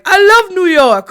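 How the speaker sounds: bellowed at the top of lungs; slow, joyful yell; screaming. Retold or imitated. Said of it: "screaming at the top of his lungs".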